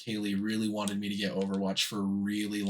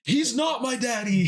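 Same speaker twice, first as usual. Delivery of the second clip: squeaky high quoted meme; 12 semitones higher, 4 dB louder than usual. Retold or imitated. Quoting meme together.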